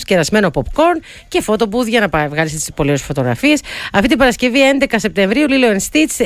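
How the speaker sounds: radio sponsor read, steadily paced. Acted. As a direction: read out the sponsor's invitation to listeners. Reads a sponsor message.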